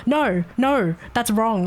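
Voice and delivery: sharp, impatient "no, no"; mock harsh correction. Trainer scolding a slow new hire, harsh. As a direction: snap at the trainee like she's hopeless. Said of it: "you don't even say it calmly".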